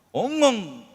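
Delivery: a short imitated wail, sobbing sound; mimicked wailing sob. Preacher mimics a woman sobbing at the microphone. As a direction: copy the woman's anguished crying in one burst. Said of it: "아, 막 엄마 애절하게 울어요".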